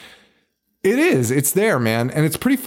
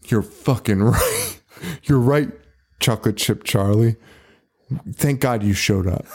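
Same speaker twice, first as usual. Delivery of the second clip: lower, earnest imitation of the woman; dead serious; 4 semitones lower than usual. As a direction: say it gravely, as if it truly mattered. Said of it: "She's being serious".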